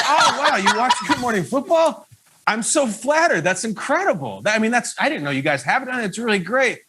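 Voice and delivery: gushing at a fan who recognised him; flattered excitement. Retold or imitated. Host retells his flattered reaction.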